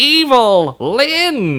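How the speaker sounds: Lin hit hard with heavy stress. Mimicking how someone pronounces the name, with heavy stress on Lin. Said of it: "they really hit the Lin part".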